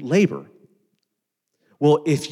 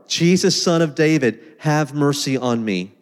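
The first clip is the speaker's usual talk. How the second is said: mild mock shout. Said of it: "he shouted all the more".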